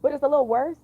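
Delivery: hoarse lost-voice sound. Shown as a demonstration. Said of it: "sound like I lost my voice".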